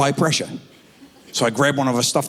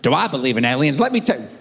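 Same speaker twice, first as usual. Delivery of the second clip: put-on Alabama accent; faster than usual. Grown son interviewed for an alien documentary, mock Alabama accent. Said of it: "Why the hell does he talk like that".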